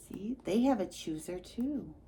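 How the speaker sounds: hushed secret whisper; soft unvoiced whisper to the child. Whispered aside about shy choosers.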